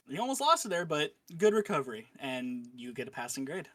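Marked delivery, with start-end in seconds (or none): 0.1-2.1 lightly voiced teacher; a hint of a stern teacher. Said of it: "Teacher will nod her head, say".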